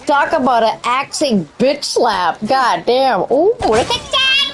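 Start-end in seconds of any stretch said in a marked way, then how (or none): 3.3-4.5 excited squeal. Real, not acted. High excited game reaction.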